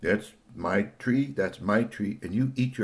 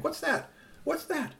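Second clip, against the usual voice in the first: high, softer puzzled voice; alarmed question; 5 dB quieter than usual. Acted. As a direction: ask in a small, high, worried voice. Voicing puzzled truck passengers.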